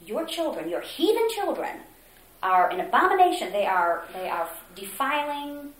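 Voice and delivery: furious rant. Retold or imitated. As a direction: ham up the director's raging tirade. Retold furious choir director.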